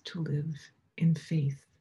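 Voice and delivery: slow hushed whisper. Acted. Preacher asking the congregation about faith, in a slow whisper.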